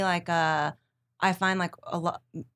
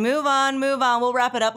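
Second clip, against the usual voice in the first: higher, louder hurried producer; urgent producer; 6 semitones higher, 6 dB louder than usual. Retold or imitated. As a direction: rush them off the air. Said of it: "our producer is saying".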